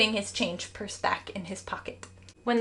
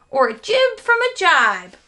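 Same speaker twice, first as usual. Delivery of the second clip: louder and higher, eager cry; cried out; 8 semitones higher, 7 dB louder than usual. A narrator's reading. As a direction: call it out with zeal. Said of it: "cried Stuart".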